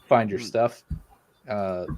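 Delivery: talking through hiccups; hiccupy broken speech. Real, not acted. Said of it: "Sorry, I've, like, the hiccups".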